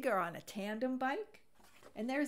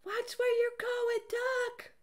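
much higher, squawky chicken voice; shrill hen voice; 5 dB louder, slower than usual. A narrator's reading. Chicken scolding Duck in a high squawk. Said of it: "what she thought was".

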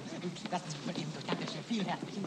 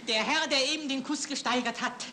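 auctioneer; 5 semitones higher, 5 dB louder, slower than usual. Acted. Auctioneer reopens bidding.

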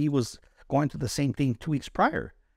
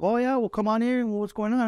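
much higher, gentle welcoming chaplain impression; 10 semitones higher than usual. Soldier imitates the chaplain welcoming him, pitched much higher. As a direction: play the kindly chaplain inviting him in. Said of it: "And he's like".

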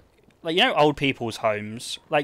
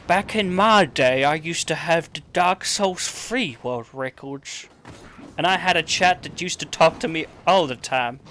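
put-on old man voice; 3 semitones higher than usual. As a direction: creak it out like a grandad telling tales. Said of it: "my accent changed when I got older".

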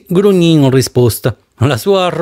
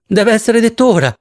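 higher, ringing insistence; vibrant tone; 7 semitones higher than usual. A narrator's reading. Miss Spanish insists to Ransiter, high and vibrant. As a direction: insist it must be said now, voice ringing. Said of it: "in tono vibrante".

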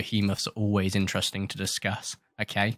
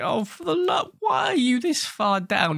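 exasperated shout; 14 semitones higher than usual. Real, not acted. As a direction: shout it high and stretched out. Yelling at a game creature.

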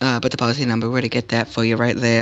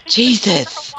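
exasperated shout; 9 semitones higher, 3 dB louder than usual. Acted. Exasperated grandma outburst.

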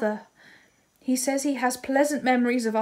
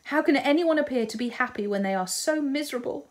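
bitter outburst; 4 semitones higher, 3 dB louder than usual. Acted. Marianne lashes out at Eleanor.

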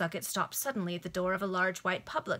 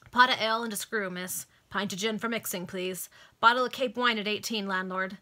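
louder, quick bar orders; calling out orders; 5 dB louder than usual. Acted. Customers calling orders to the landlord, raised voices. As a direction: shout it over the din.

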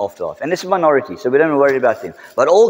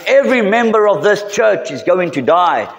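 raised, higher pastor's proclamation; louder retold warning; 6 semitones higher than usual. Pastor repeating it to the laughing kid, louder and higher. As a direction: say it again, pushing it louder. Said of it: "even louder, he said".

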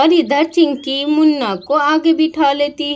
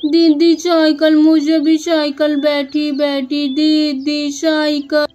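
lightly voiced little boy insisting; stubborn toddler. Little brother insisting he wants to ride too, childish whine. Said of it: "जिद करने लगता है".

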